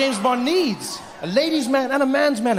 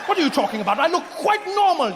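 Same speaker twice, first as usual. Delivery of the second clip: offended Brit; 8 semitones higher than usual. Acted. Brit protests, pitch jumps.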